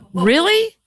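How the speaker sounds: very high, squeaky outraged whine; indignant disbelief. Retold or imitated. Son protesting his mom's favorite comedian, squeaky and high. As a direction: squeal your protest at your mom.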